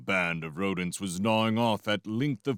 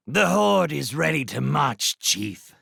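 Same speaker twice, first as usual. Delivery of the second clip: a lightly voiced rat officer, somewhat louder; soldier's report; 6 semitones higher, 3 dB louder than usual. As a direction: report for duty briskly. Redtooth reports to Clooney.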